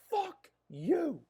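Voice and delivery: mock squeaky high voice for the caller; mocking squeak. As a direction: squeak it out like a whiny little man. Imitates the angry caller hanging up.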